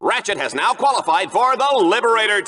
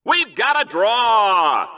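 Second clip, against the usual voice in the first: drawn-out call; much slower than usual. Acted. Announcing a draw.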